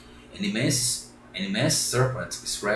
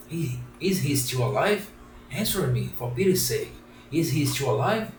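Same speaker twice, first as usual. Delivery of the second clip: higher, eager puppet voice; eager pleading; 4 semitones higher than usual. Acted. Pinocchio eagerly begs the pigeon for news of papa. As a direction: press the pigeon urgently for news.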